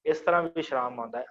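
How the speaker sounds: usual speaking voice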